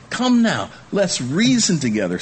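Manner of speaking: high, coaxing invitation; God inviting. Retold or imitated. The Lord inviting his people, high and coaxing. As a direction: call them in gently but high. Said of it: "says the Lord".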